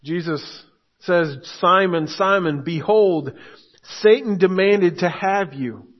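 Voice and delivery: measured, solemn reading of the verses; scripture reading. Acted. Pastor reading Luke to the congregation, solemn and measured. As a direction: read the Lord's words slowly and gravely.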